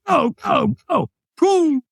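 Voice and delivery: high-pitched shouted command; urgent send-off. Retold or imitated. Trainer sending the storyteller onto the coals, urgent shouted command. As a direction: launch the walker with rapid urging.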